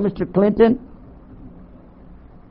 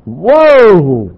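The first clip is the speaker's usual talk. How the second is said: startled exclamation; 5 dB louder than usual. Real, not acted. Set up as terrorist on radio.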